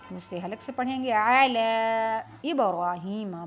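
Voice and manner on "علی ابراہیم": علی ابراہیم slow, with bouncing ب and heavy ر; qalqala. Shown as a demonstration. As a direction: echo the ب in ابراہیم. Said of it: "با پر قلقلہ کریں گے". (قلقلہ کے ساتھ ابراہیم)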